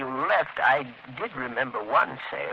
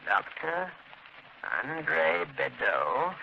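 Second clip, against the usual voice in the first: slow, spaced-out, softer delivery; slow dictation; 6 dB quieter, much slower than usual. Acted. Clerk writing down an address for Margot, slow dictation. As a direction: dictate it bit by bit while writing.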